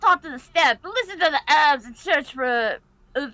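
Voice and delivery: Sticky impression. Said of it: "your impression of him is quite good".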